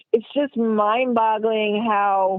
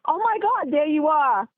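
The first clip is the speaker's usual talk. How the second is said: imitating a friend's squeal, pitched higher; excited friend; 5 semitones higher than usual. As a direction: mimic her friend's excited discovery. Friend sees her on TV.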